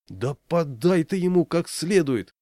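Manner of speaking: high, slow heckling shout; shouted from the audience. A narrator's reading. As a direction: urge him on from the seats. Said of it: "выкрикнули в зале".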